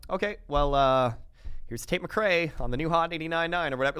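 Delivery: bland DJ sign-off; lazy radio host outro. Retold or imitated. Mimics weak radio outro.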